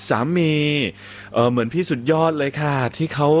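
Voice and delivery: lightly voiced gushing female listener; a hint of a swooning woman's message; reading a listener's message. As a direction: read it like an excited fan writing in. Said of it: "คุณปูปูบอกว่า".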